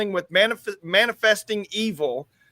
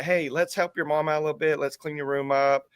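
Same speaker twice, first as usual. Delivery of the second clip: put-on a soft, gentle coaxing to the kids; lovingly; 2 semitones lower, 3 dB quieter than usual. A father lovingly asking the kids to clean their rooms, gently. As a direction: coax them kindly, a touch of fatherly sweetness. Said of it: "I very lovingly say".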